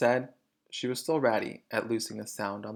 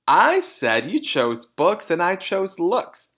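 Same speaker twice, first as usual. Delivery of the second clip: slow, loud, higher repetition; smug mother; 7 semitones higher, 7 dB louder, slower than usual. A narrator's reading. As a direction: spell it out slowly, condescending. Mrs Wormwood repeating.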